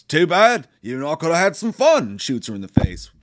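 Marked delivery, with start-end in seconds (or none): 0.0-2.0 mocking killer taunt. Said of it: "He just goes".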